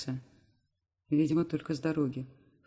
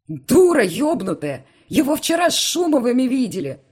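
raging yell; 9 semitones higher, 13 dB louder than usual. Acted. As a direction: roar at her in fury. Uncle screaming at Irma.

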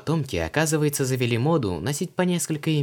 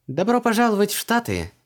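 much higher, louder welcome; loud exclamation; 12 semitones higher, 6 dB louder than usual. A narrator's reading. Luise loudly welcomes Creole to the States, loud. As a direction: call it out as to a deaf man. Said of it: "громко воскликнула она".

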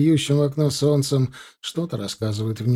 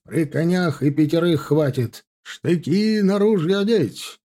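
combat callout; 4 semitones higher than usual. Acted. Officer ordering troops into battle.

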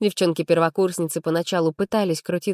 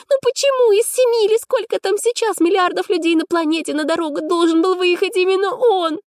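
put-on much higher, louder, frustrated young woman; Arina's exasperated inner voice; 13 semitones higher, 4 dB louder than usual. A narrator's reading. Heroine grumbles to herself about meeting him. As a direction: wail at fate that the world got so small.

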